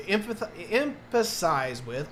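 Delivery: slowly stumbling over "empath-, emphasize"; fumbled, drawn-out second try at "emphasize"; tongue-tied. Real, not acted. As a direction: grope for the word, restarting "empath-" slowly as "emphasize". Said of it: "I can't word today".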